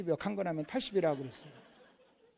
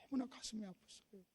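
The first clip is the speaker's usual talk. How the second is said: ordinary talk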